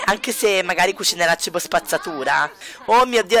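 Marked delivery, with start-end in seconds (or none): 2.9-3.4 high, loud oh my god; shocked outburst at chaos; exasperated surprise. Real, not acted. Dogs barking at the wedding.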